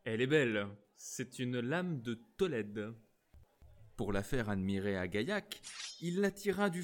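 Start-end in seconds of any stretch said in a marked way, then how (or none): 0.0-2.9 proud. Acted. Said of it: "fier de sa rapière comme d'un jouet nouveau".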